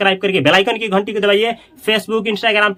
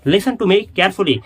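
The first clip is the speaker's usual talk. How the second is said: slow drill; much slower than usual. Shown as a demonstration. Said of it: "तो कैसे बोलूंगा".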